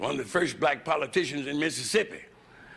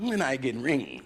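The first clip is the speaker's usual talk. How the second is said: wife's broken English; 3 semitones lower than usual. Retold or imitated. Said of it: "she asked me, you know".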